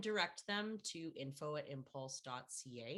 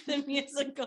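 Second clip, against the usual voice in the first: grand announcement; 10 semitones higher, 11 dB louder than usual. Acted. Announcing her show grandly.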